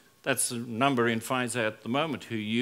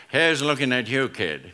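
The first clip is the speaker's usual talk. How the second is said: Humphrey Bogart; 2 semitones lower than usual. Retold or imitated. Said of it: "I'm gonna do my Humphrey Bogart accent".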